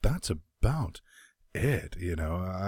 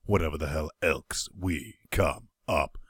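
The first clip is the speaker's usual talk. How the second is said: lively announcer intro with swooping pitch; podcast intro read, pitch leaping on key words; show-opening host; 5 semitones higher than usual. Acted. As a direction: kick off the show with playful hype.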